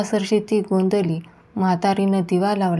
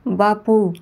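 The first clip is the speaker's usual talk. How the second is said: calling again; 2 semitones higher, 3 dB louder, much slower than usual. A narrator's reading. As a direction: repeat बापू a touch less loud. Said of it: "ओरडली".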